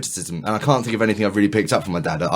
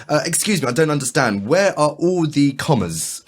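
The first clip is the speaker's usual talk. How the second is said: confused customer; 6 semitones higher, slower than usual. Retold or imitated. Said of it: "calling over, um, like, one of the shelf stackers and go".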